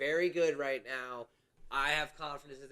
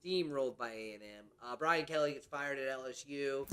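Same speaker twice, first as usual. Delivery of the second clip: put-on Creole Southern accent; 4 dB louder than usual. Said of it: "forgot what his actual voice sounds like?".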